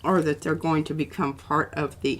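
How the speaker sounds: talking around a pen held in the mouth. Real, not acted. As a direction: speak with a pen between the teeth. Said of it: "talking with a pen in my mouth again".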